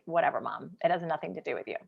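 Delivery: low, soft brush-off; dismissive. Retold or imitated. Daughter brushing off her horrified mom, dismissive. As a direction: wave it away under the voice. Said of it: "I'm laughing 'cause I'm like".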